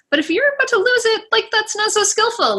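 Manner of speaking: high, fast and emphatic. Real, not acted. Parent warning other parents about losing it, emphatic. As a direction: stress the warning with rising urgency.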